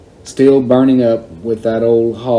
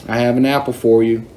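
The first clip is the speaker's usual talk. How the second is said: coaxing call to a monkey; 3 semitones higher than usual. Retold or imitated. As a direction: call out sweetly, a bit higher. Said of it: "held it out in front of me and called".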